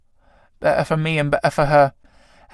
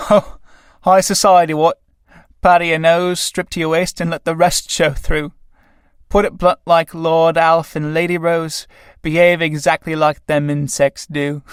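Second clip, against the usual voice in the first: rough tramp voice, slowing at the end; cockney tramp; 2 semitones higher than usual. Acted. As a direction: grumble like an old tramp. Tramp figure mocks society.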